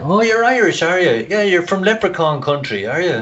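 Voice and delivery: high, gushing woman's voice; mock high voice of a curious woman; Australian woman. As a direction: imitate an over-keen stranger, pitched well up. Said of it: "I remember a woman in Australia saying".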